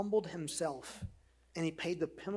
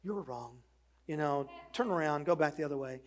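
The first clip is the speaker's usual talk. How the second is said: sweet GPS voice; 2 semitones lower than usual. Retold or imitated. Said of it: "he very sweetly says".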